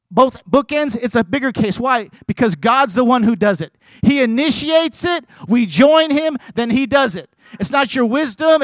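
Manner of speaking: impassioned preaching. Real, not acted. Preacher telling the church it's about working with Jesus, impassioned preaching. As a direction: build through the list, punching each phrase.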